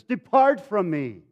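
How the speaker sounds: loud, mildly anguished plea; impassioned acted confession; crying out. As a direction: cry it out slowly and forcefully. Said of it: "he cries out to".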